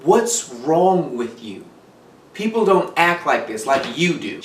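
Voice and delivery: very slow, cold, detached question; cold disbelief. Retold or imitated. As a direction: say it as if the child isn't a person. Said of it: "She said it like".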